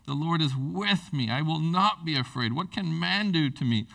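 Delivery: lifted, earnest reading of the verse; fervent scripture reading. Acted. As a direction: read it as God's promise. Reads scripture aloud.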